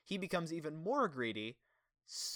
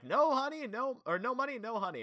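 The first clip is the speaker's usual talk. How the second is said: imitating CJ's taunt, higher and louder; sing-song kid's taunt, hammed up; mocking CJ; 9 semitones higher, 3 dB louder than usual. Mocking CJ's line again.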